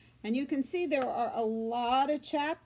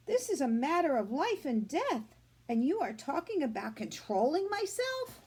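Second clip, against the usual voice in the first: put-on outraged girl; 3 semitones higher than usual. Fern argues with father.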